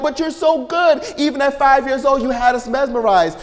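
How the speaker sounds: high, excited gushing praise; high-pitched doting parents, pleading with him. Retold or imitated. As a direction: rave about how good he was. Parents gushing over grown son.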